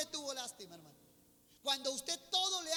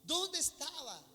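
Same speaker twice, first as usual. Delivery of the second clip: doubting believers; 5 semitones higher than usual. Retold or imitated. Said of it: "Y muchos dicen".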